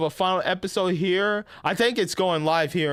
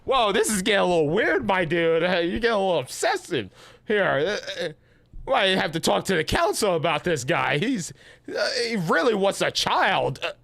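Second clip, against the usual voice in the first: amused mock warning; 3 semitones higher than usual. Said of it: "I'm like".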